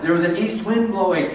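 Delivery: like seeing the line for the first time; fresh rereading. Shown as a demonstration. Teacher rereading the verse to the class with a fresh, amused lift. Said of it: "Read it again with a new set of eyes".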